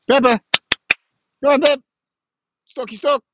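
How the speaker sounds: high, loud call across the yard; high-pitched dog call, loud and bright. Real, not acted. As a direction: shout for the dog to come. Calling his dog outdoors.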